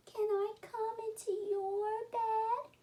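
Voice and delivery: high squeaky little mouse voice calling out. Acted. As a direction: call for help like a tiny scared mouse.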